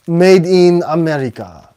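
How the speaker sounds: playful mock French accent; lightly hammed-up French accent, drawn out. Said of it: "said that in a French accent".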